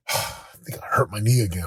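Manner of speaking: put-on mildly deflated, as a let-down boy; imitating discouraged son. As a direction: sigh heavily, then low-key retelling of a dejected kid. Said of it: "downward spiral of discouragement".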